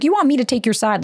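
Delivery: high, exasperated mock yell at the caller; retold angry yell. Mom yelling at the boyfriend who called her, exasperated mock yell. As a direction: play Mom snapping down the phone, fed up.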